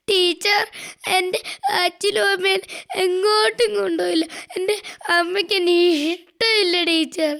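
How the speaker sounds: put-on a child's tearful complaint, lightly sobbed; crying child. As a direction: sniffle the words out as a hurt child. (കരഞ്ഞുകൊണ്ട് പരാതി പറയുന്ന കുട്ടി)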